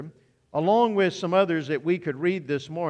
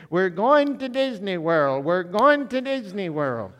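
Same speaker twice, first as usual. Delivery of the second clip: mock excited child squeal; 2 semitones higher than usual. Five-year-old granddaughter cheering to grandpa, mildly mock excited child voice. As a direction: play the five-year-old running round the room, thrilled.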